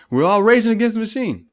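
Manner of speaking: rage against the machine. Shown as a demonstration. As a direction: shout the slogan like a rally cry. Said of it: "Little reference right there".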